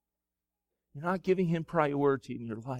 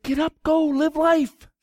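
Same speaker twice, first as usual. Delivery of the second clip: high, loud, slowing commands fading to a calm close; command, then settle into I am your God; God sending Elijah back to life; 11 semitones higher, 6 dB louder, slower than usual. Acted. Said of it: "He said".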